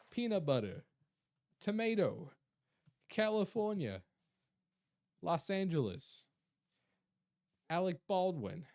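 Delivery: exaggerated American accent, swooping down; put-on American accent. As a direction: show off each word in an American accent. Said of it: "I'm developing an American accent".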